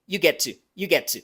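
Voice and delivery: "You get to" with a crisp British T; a British "get to", T fully sounded; British accent. Retold or imitated. Teacher imitates a Briton for students. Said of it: "Un británico diría".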